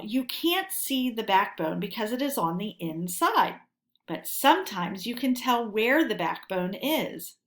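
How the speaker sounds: lively storybook reading to a class; animated reading to children; read-aloud story narration. Acted. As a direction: read it like a friendly animal presenter talking to kids.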